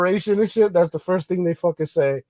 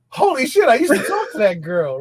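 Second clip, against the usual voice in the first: high-pitched burst of disbelief on holy shit; excited holy shit; surprised recognition; 6 semitones higher than usual. Retold or imitated. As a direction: blurt it out amazed.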